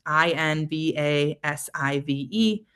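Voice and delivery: each letter named slowly, I N V A S I V E; spelled out letter by letter. Shown as a demonstration. Teacher spelling the word aloud for students, slow letters. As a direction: spell I N V A S I V E out for the class. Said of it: "spell it together".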